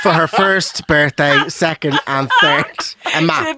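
slow, laughing half-shout; laughing outrage. Real, not acted. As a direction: drag it out through laughter. Mocking stingy godparent's map gift.

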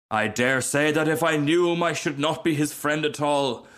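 self-important rocket, lecturing. Acted. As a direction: lecture them from on high.

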